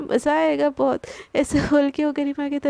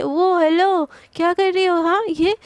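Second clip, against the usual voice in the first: teasing snap; 3 semitones higher, 4 dB louder than usual. Acted. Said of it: "चुटकी करके बोलती है".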